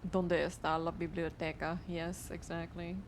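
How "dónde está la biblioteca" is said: mock Spanish. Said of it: "Y'all ever do, like, some".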